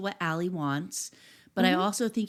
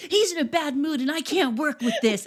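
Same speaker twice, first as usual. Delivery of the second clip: mock screaming, high and loud yelling rant; 7 semitones higher, 4 dB louder than usual. Retelling a scene of someone complaining while yelling at everyone: imitating someone screaming. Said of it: "as he's screaming and yelling at everyone".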